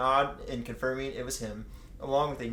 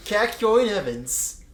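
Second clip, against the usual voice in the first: drawn-out name reveal; 8 semitones higher, 9 dB louder, slower than usual. Pretend. Drawn-out mock name announcement.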